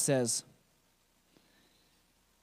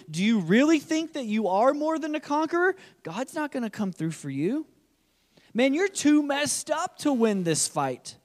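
a lightly voiced giant's taunt, pitch rising higher on the doubting questions; the inner giant taunting the listener, mild mockery; 5 semitones higher than usual. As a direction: needle them, mock their faith. Voicing the giant's taunting message.

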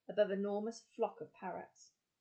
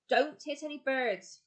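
loud, raised roar; 5 semitones higher, 7 dB louder than usual. A narrator's reading. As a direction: roar a warning over the engine. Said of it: "roared the explorer".

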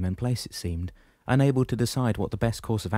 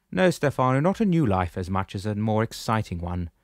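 put-on booming old shepherd, pitched up; 2 semitones higher, 4 dB louder than usual. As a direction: address him firmly from above. Damianos speaks.

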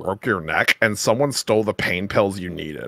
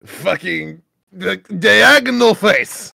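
silly character voice; 7 semitones higher, 3 dB louder than usual. Acted. Reading chat insults aloud, high silly character voice.

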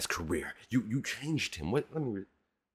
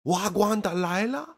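high mocking repeat of the hook; 9 semitones higher, 6 dB louder than usual. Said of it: "mocking the hook".

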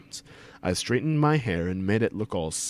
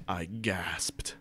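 hushed gasp; 4 semitones lower, 10 dB quieter than usual. A narrator's reading. Narrates a gasp, voice drops.

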